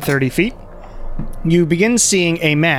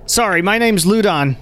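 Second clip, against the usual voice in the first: lightly voiced, slightly higher man; apologetic villager; 5 semitones higher than usual. Ludon introducing himself to travelers, mildly apologetic.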